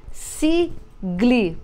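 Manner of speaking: sigle blended slowly, trying the sound. Shown as a demonstration. Teacher testing whether sigle makes a word, trying it out. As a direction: try out sigle as a test word. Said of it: "Formou palavra?".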